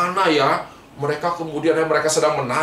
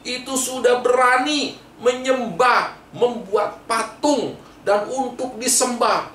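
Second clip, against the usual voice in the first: mildly raised, rebuking tone with a touch of anger; angry Moses; 4 semitones higher than usual. Acted. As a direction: scold the people for their idol. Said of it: "Dia marah sekali".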